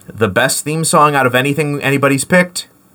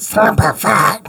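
squeaky rubber duck; 7 semitones higher than usual. Acted. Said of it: "I'm about to try".

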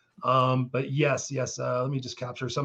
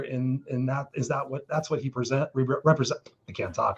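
choked up. Real, not acted. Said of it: "I'm, like, choked up thinking about this".

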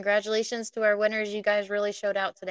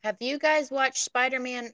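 attempted British accent, pitched up; 5 semitones higher than usual. Shown as a demonstration. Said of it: "British accent? That was the best I got".

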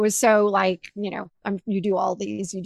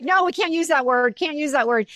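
raised-pitch, mild protest; retold objection; 5 semitones higher than usual. Medium refusing mom's word in retold exchange, mildly insistent. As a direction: object firmly, repeating yourself.

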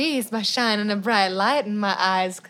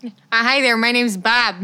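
put-on Midwestern accent. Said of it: "I'm from the Midwest".

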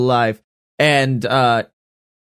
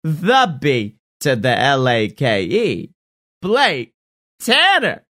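ringmaster. Pretend. Show intro announcement.

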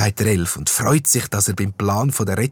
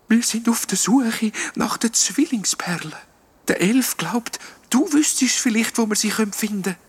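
high ghost whisper; 13 semitones higher than usual. A narrator's reading. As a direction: keep it secret. Ghost explaining while sneaking.

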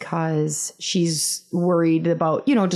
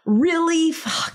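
acted reluctance; 7 semitones higher, much slower than usual. Acted reluctant reaction to picnic.

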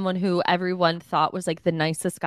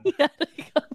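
laughing through the line; 8 semitones higher, much faster than usual. Real, not acted. Co-host repeats the Chicago line, laughing. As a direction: quote it while cracking up.

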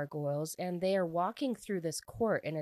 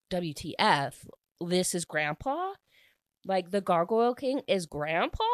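stunned disbelief; 5 dB louder than usual. Real, not acted. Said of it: "I was shook".

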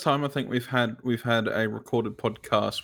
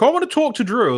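put-on high, loud whiny child; kid voice; 13 semitones higher, 9 dB louder than usual. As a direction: whine it like a small kid. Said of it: "They're like".

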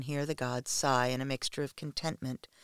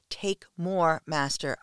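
mild scream; 2 semitones higher, 5 dB louder, slower than usual. Acted. A submissive crying out to her master, half-screamed. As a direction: cry out "Take more" with a mild, restrained scream. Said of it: "I scream".

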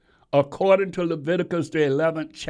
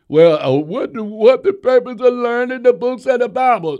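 mock dismissive question; 6 semitones higher, 6 dB louder than usual. Mocks a dismissive believer's question.

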